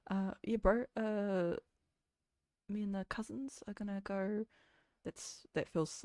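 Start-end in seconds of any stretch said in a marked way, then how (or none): 0.1-4.4 tentatively exaggerated New Zealand accent; casual, put-on Kiwi accent; thicker Kiwi accent. Shown as a demonstration. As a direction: try on a broad Kiwi accent. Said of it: "can you make your accent thicker after this".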